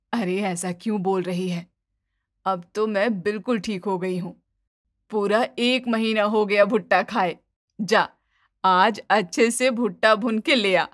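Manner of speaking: put-on kindly older woman; forgiving mother-in-law.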